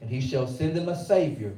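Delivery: measured preacher reading; scripture reading. Acted. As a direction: read the verse with weight.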